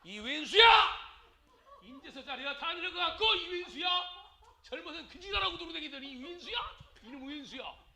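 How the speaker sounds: high-pitched mock nagging of a spouse; resentful scolding. Preacher mimicking a wife berating her aging husband, resentful scolding. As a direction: act out an old grudge against the spouse.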